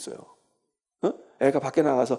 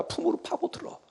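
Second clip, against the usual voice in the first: soft, unvoiced whisper, higher pitch; 14 semitones higher, 7 dB quieter than usual. Preacher whispering to congregation about burrowing into mother's arms. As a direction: breathe it out as a hushed aside. Preacher hushes describing child.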